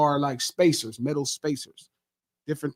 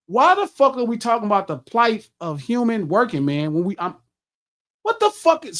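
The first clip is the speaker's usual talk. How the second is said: higher mock outburst, a touch of real heat; replaying how he snapped at his friend; retold angry outburst; 5 semitones higher than usual. Retelling snapping at his big homie, higher mock anger. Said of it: "so immediately I'm mad".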